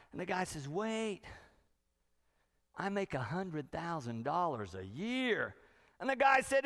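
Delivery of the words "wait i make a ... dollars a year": no big deal. Acted. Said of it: "like no big deal".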